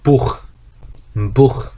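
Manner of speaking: "Buch" with a rasping ch at the back of the throat; German ach-sound in Buch. Shown as a demonstration. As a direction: say "Buch", ch breathed like 흐. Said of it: "치 발음이 흐 한다는".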